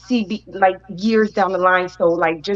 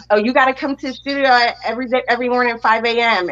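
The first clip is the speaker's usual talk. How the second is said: quoted instructions; 5 semitones higher, faster than usual. Retold or imitated. Voices studio people giving instructions.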